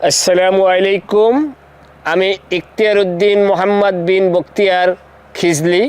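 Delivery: slow, ceremonious announcement; grandly formal greeting. Acted. Prank caller introduces himself to a stranger at night, grandly formal. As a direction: draw out each name with pomp.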